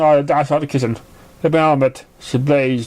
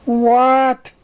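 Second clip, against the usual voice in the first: high, startled squeak; surprised high squeak; 9 semitones higher, 3 dB louder than usual. Acted. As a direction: squeak it out in shock. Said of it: "Sable squeaked".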